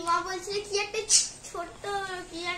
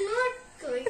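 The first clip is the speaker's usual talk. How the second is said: laughing; 4 dB quieter than usual. Real, not acted. Child relieved prank revealed.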